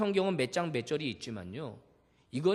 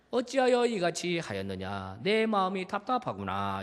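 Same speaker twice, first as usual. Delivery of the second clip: gentle rebuke. Shown as a demonstration. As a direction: lovingly ask why, a little weary. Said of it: "부드럽게 좀 이야기할 수". (부드럽고 답답한 듯 타이르기)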